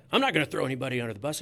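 fast, mild mock snap; blasting reply. Manager blasting a reporter at a press conference, fast mock snap. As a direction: cut him off and fire back quickly. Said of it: "he just blasts me".

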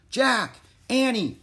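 high, loud calling out; shouted call. A narrator's reading. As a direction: shout the names to get attention. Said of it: "someone shouted".

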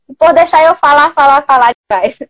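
choppy breaking-up stream; glitching audio. Real, not acted. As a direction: voice cutting in and out. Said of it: "Tá travando tudo aqui".

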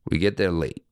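breathy whispered aside; whispered repeat. Real, not acted. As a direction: whisper it like a secret.

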